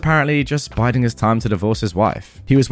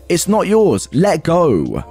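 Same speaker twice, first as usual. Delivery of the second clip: retold yell; 6 semitones higher, much slower than usual. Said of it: "yelling at him".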